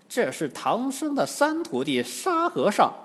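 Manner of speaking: high-pitched she-demon voice; White Bone Demon. A narrator's reading. Demoness explaining the captive to her mother, high voice. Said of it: "白骨精忙扶住老妖说".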